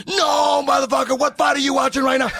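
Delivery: high, loud exasperated yell; loud shout. Retold or imitated. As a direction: yell it in disbelief. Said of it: "He goes".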